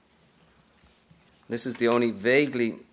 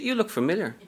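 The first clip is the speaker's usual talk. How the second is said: cutesy; 8 semitones higher than usual. Acted. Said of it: "all cutesy and shit".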